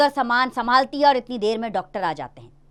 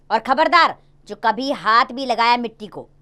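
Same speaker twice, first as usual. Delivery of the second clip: louder warning, half-shouted; 2 semitones higher, 5 dB louder than usual. Acted. Father warning daughter not to touch the clay, raised voice. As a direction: warn her off loudly. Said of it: "क्यों चिल्लाकर अपनी खांसी बढ़ा रहे हो".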